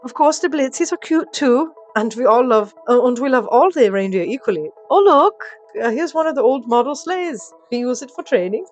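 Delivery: loud, high, flustered elf; chagrined elf. Acted. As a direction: backpedal brightly, then distract with excitement. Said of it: "with a chagrined tone".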